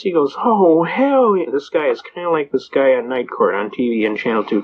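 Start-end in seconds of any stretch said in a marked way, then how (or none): 0.4-1.5 slow, drawn-out flippant "hell yeah"; mock flippant judge. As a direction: toss it off like a bored judge. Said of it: "kinda flippant".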